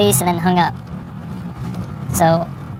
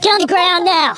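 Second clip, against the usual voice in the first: shouted surrender demands; 10 semitones higher than usual. Real, not acted. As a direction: yell it to force compliance. Officer forcing suspect down.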